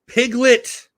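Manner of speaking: "Piglet" sung out high; name said again. Shown as a demonstration. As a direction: lift "Piglet" high, showing how it's said. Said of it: "See how I said it that way?".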